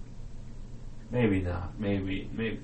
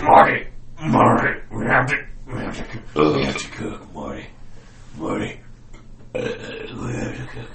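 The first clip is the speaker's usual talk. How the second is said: Walter White impression; 6 dB louder than usual. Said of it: "That's Walter White".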